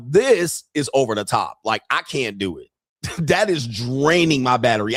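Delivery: ordinary delivery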